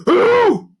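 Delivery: high, loud startled creature squawk; puzzled king. A narrator's reading. Creature king doesn't know his daughter, puzzled. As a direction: blurt it in confusion.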